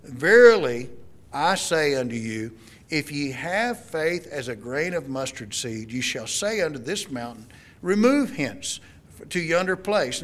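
measured King James reading, a lightly lifted Remove hence; formal Bible reading to the congregation; scripture reading. Acted. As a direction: read the verse out with solemn weight. Reads Bible verse aloud.

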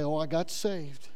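ordinary talk, nothing marked

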